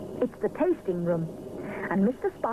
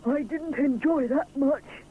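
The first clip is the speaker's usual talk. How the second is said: slow, grumbling little voice; mild complaint; complaining; 6 semitones higher, slower than usual. Acted. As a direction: moan about the ordeal. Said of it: "he complains".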